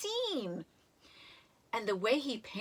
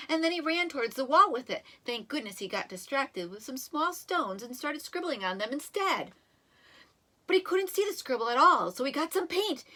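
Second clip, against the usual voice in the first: nervous rushed explanation; 3 semitones higher, 4 dB louder than usual. Acted. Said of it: "See how nervous?".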